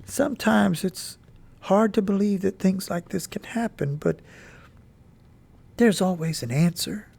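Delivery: mother gently comforting her grieving son; gentle voice. Acted. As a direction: ease the words to him kindly. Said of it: "Then in a gentle voice she said".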